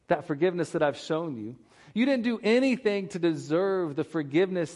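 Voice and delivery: preacher voicing an indignant king, fading at the end; stern king rebuking. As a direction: press each question home like a disappointed ruler. King rebukes the unforgiving servant.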